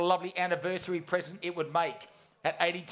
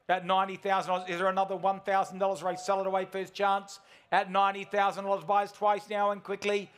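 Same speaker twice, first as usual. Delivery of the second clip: race caller. Real, not acted. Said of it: "I sound like a race caller".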